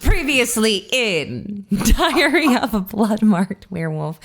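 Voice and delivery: slow, drawn-out dramatic recap opener; a TV announcer ham, cracking up mid-line; mock TV recap voice. Recap opener to her co-host, slow and laughing. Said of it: "This is a very serious podcast".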